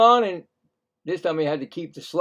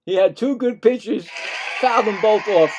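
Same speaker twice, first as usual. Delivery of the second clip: louder call with a shouted fouled; excited shouted call; 5 semitones higher, 3 dB louder than usual. Real, not acted. Commentator calling two straight fouls, excited and louder. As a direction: punch the repeat of the two fouls.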